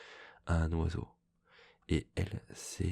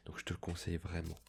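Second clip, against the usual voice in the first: quick hushed whisper; library whisper; 5 dB quieter, faster than usual. Real, not acted. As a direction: whisper it like a secret tip. Confides recommendation in a whisper. (chuchotement discret)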